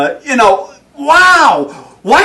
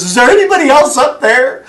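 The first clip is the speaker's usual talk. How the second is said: retold plea, pitched higher and louder; frantic hanging man; 7 semitones higher, 4 dB louder than usual. Man clinging to the branch asks heaven, half-joking panic. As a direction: ask in a hammed-up panic, looking for another way out. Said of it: "He says".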